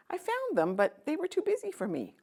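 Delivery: high, lightly voiced king. King telling the girl about the busy siblings, lightly voiced. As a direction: say it with a touch of sadness.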